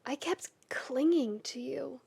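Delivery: hushed, breathy whisper of shame; whispered confession. Acted. Keith confessing to Shiro in a whisper. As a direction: barely voice the words.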